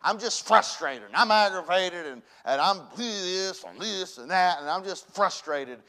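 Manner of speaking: acting out mild aggravation; retold frustration. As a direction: gripe through a retold bad mood. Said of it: "I'm put out over something".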